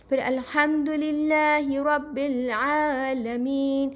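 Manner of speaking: slow Arabic recitation of الحمدللہ رب العالمین; Quranic recitation. Shown as a demonstration. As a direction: draw out the long vowels in للہ and عالمین. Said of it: "لام کھڑا زبر لا".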